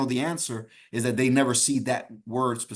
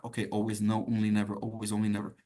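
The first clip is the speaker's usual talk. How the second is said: mock careless exam-taker, dropping low and softer; careless test-taker; 4 semitones lower, 4 dB quieter, faster than usual. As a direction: skim the options under your voice like a hasty student. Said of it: "Don't be this person".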